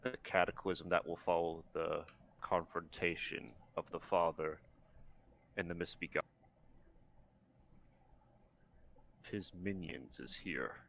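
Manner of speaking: low, hushed lizard voice. Acted. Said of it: "I gotta do the lizard voice".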